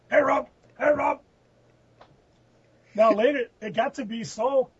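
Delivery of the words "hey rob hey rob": high-pitched imitation of a holler; sing-out mock greeting, pitched way up; mock calling out. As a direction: call out in a goofy high voice.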